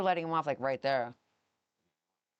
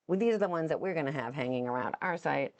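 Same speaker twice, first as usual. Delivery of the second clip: upbeat sales pitch voice; pitching it like a salesman. Real, not acted. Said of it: "in that salesman voice again".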